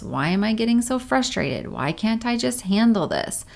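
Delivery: exasperated self-blame, lightly played; self-judging inner voice. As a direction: voice the nagging inner critic. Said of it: "Oftentimes we judge ourselves".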